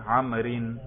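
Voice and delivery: عمرن said as amrin, ending in a nasal -in; genitive -in ending. Shown as a demonstration. Teacher lists the case endings, the -in form last. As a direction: say عمرن with a clear -in at the end. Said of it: "تینوں اعراب بھی آتے ہیں".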